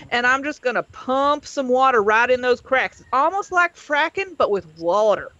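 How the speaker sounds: put-on southern-accented science explainer; loosely southern professor giving a lecture. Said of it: "Doctor North has a southern accent".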